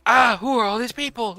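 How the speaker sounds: mock him as bewildered; mocking imitation. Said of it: "he'll be like".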